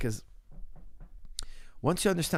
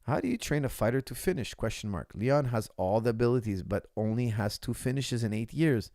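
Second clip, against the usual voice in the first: reading a question out. Shown as a demonstration. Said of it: "That's from Fight Milk".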